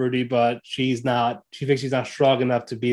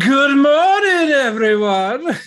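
very high-pitched, loud voice; 14 semitones higher, 7 dB louder than usual. Acting out Rudy waking up the next morning: acting as Rudy. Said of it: "I gotta do it".

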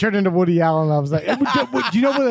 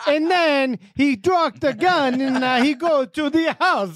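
over-the-top fake Italian accent, high; 5 semitones higher than usual. Podcast hosts riff in fake accents; one narrates in an accentuated sarcastic italian accent. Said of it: "in like accentuated sarcastic Italian accents".

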